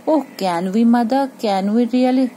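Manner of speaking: put-on a child's excited can we really; excited hope. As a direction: bounce with delighted disbelief. Child excited about keeping nest.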